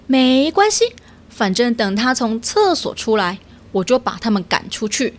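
a little otter with a plan; sea otter. Acted. Otter reassuring owl.

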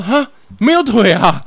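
high, loud, slow shocked disbelief; shocked question. Retold or imitated. Student learning boxing has no kicks, shocked. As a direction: imitate her stunned disbelief.

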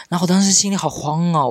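panicked. Retold or imitated.

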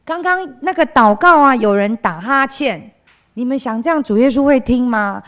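传道人提高嗓门责备孩子; preacher scolding. Retold or imitated. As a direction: chide the children for yawning in prayer. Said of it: "他说".

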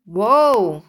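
startled loud whoa; ladybug voice. Acted. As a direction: gasp it out in alarm. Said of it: "the ladybug said".

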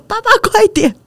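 urgent call to dad, pitched high; excited urging. Retold or imitated. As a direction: hurry him up, breathless with excitement. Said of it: "伴随着我激动的说".

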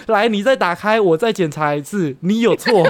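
loud mock order. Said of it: "他还很大声地说".

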